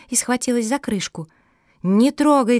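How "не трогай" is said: sharp louder call to stop; warning shout. Acted. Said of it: "крикнула Капа".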